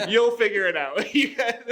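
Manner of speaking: high voice breaking into laughter; laughing mock dismissal. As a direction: laugh through a mock brush-off. Mock dismissal, laughing while retelling.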